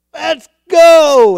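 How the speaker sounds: David rallying the troops, loud and high; rallying shout. Retold or imitated. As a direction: fire up the army to charge. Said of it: "looked at the rest of them and said".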